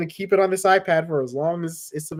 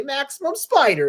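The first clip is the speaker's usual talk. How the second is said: heroic shout; 8 semitones higher than usual. Pretend. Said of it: "Spider-Man would just say".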